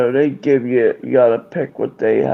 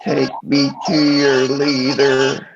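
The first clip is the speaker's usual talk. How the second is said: alien voice; slower than usual. Pretend. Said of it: "It's like the alien voice".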